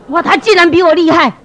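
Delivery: loud, high amazement; acted-out wounded disbelief at full voice; astonished outburst. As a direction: exclaim it as if stunned to be outdone. Acted amazement at being outdone.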